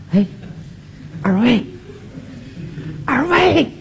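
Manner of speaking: pleading through laughter; laughing plea. Retold or imitated. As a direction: beg for a gap while chuckling. Retelling his plea to the couple.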